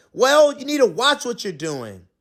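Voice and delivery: loud scolding; annoyed. Acted. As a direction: scold him for being careless. Pizza man bickering.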